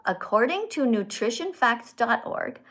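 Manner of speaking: slow read with clear syllables; slow careful reading. Shown as a demonstration. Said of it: "don't go fast".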